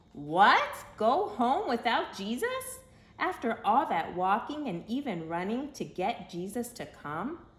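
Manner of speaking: loud, high disbelief; astonished. A narrator's reading. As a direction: cry out in shock. Narrator's astonished outburst.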